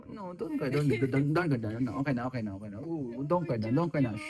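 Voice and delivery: rhythmic, repetitive comforting. Real, not acted. Daddy to baby, don't cry, soothing.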